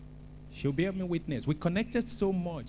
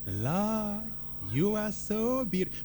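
tender praise; 3 semitones higher, slower than usual. Shown as a demonstration. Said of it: "But how about this?".

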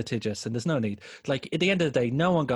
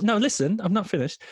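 higher, louder retold interjection; mock insistence; 8 semitones higher, 4 dB louder than usual. Retelling his taunt to Matthew, mock insistent. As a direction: push back as if cutting someone off.

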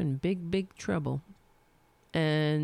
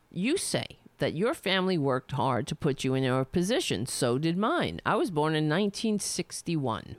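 reading a letter aloud. Acted. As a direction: read it out like a formal open letter. Reads the letter aloud again.

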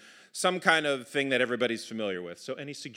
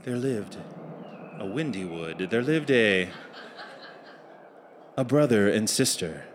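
measured once-upon-a-time delivery; fairy tale narration; 3 semitones lower than usual. A narrator's reading. Narrator sets up the tale for the audience, measured storytelling.

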